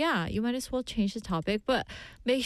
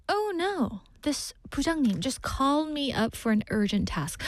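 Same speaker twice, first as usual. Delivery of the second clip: fake excuse; 4 semitones higher than usual. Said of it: "and say".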